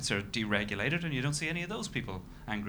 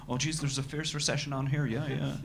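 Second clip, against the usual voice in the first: mock Dubai accent; 3 semitones higher than usual. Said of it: "the indigenous Dubai accent perfectly replicated".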